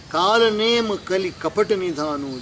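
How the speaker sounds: slow, measured scripture quote; verse recitation. Real, not acted. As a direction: recite the line slowly before explaining it. Recites verse before explaining it. (धीमा चौपाई पाठ)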